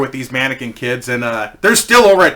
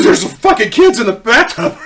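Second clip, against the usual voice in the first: higher, louder panicked wife; 7 semitones higher, 4 dB louder than usual. Retold or imitated. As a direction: shaken wife bursting out of the bathroom. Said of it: "She says".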